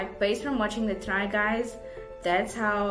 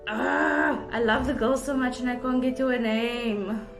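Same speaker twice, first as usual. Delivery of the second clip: frustrated at forgetting; 4 semitones higher than usual. Real, not acted. Frustrated at forgotten name.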